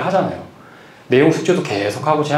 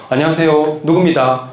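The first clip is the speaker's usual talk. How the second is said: Daegu dialect greeting. Retold or imitated. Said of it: "대구 아나운서인데 대구 사람만 보는데".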